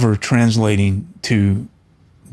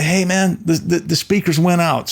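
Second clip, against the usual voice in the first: higher, calling out over a concert; mock shout up to the sound guy; retold yell; 7 semitones higher than usual. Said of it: "were yelling at".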